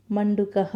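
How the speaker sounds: मंडूकः closing on a short "a" with an echoed "ha"; visarga ending. Shown as a demonstration. Teacher showing how the Sanskrit word for frog ends, voiced visarga. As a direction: sound the final ः of मंडूकः as a light "ha". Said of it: "अंत में उसका ध्वनि अ से ही अंत".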